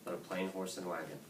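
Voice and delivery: low, soft, deflated admission; sheepish, embarrassed. A narrator's reading. Boy red as a beet answering Dad, sheepish. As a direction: drop low and quiet, sheepishly owning up. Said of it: "growing red as a beet".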